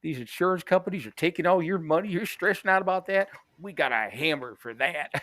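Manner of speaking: lightly voiced goofy pitchman; a hint of a cartoon mascot. Mocking the cartoon lawyer ad selling to viewers. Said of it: "these fucking cartoon".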